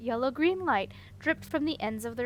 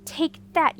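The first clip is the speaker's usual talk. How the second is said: louder, gleeful jab; mild triumphant shout; 5 semitones higher, 8 dB louder than usual. A narrator's reading. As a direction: throw it at them with glee. Throwing water at wizards.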